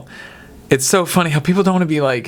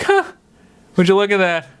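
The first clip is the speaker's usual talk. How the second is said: lightly voiced grandma, pitched up; imitated grandma; 6 semitones higher than usual. Grandma to the family after her slip, lightly put-on higher voice. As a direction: play grandma casually noticing her slip. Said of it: "She'd be like".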